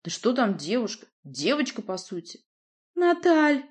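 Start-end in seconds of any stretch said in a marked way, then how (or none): 2.9-3.6 high, loud plea of his name; girlish voice breaking into a plea; tearful cry. Acted. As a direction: call out his name near tears. Nadya cries out his name.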